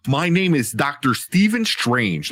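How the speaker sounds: put-on slow, over-enunciated British-style American accent; Cumberbatch American accent. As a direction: mimic a Brit doing an American accent, every sound crisp. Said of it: "Cumberbatch, perfect example".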